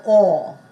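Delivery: "or" with a rounded back vowel; open OR vowel. Shown as a demonstration. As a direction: sound out "or" as in horse, unlike "er". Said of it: "Same, O R spelling".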